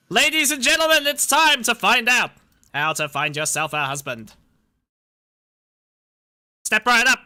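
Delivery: hammed-up carnival barker pitch; snake oil seller. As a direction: sell it like a fairground huckster. Hosting the list like a showman.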